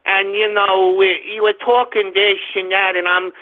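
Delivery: mocking impression of a supposedly Jewish accent; put-on Jewish accent, mocking; Cantwell. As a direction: mimic a caricatured Jewish accent to ridicule him. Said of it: "that's the most Jewish accent I've ever heard".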